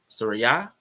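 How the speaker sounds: Soraya with a lifted last syllable; testing the stress. Shown as a demonstration. Host trying out a name, Soraya rising on the ending. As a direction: say Soraya as so-ree-AH, rising at the end. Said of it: "put the emphasis on the right syllable".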